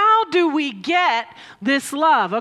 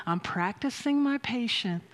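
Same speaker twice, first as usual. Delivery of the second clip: Aunt Libs; 8 dB quieter than usual. Retold or imitated. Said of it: "Aunt Libs laying there in her bed going".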